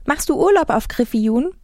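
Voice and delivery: high, perky question; too enthusiastic. A narrator's reading. Girl interrupting a stranger's thoughts, perky and curious. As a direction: cut in with bouncy curiosity. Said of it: "Selbst ihr Ton klang viel zu begeistert".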